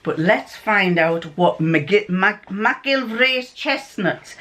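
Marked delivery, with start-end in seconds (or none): 1.4-4.3 put-on slow, uncertain Scottish accent; attempted Scottish accent. Vlogger attempting the Scottish name in a puzzle, shaky Scottish accent. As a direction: have a careful go at a Scottish name. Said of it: "Sorry about my Scottish accent".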